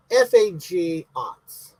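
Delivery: letter by letter, very slow; slowly spelled out. Acted. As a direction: spell it out deliberately. Spells out the slur.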